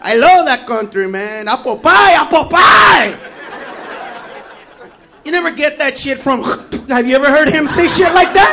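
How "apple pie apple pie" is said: mock shout. Comic shouting American cheer.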